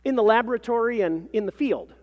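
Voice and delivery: high, loud, self-important claim; pompous professional. A narrator's reading. Mother describes her research to the clerk, pompous and assured. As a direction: proclaim it like an impressive credential.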